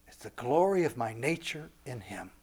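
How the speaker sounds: soft, measured divine declaration; voice of God. Acted. God declaring man's special glory, hushed and solemn. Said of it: "And God says".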